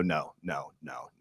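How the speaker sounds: a hint of a closed-off mom; mom refusing. Daughter imitating mom refusing to listen, softly. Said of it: "She was like".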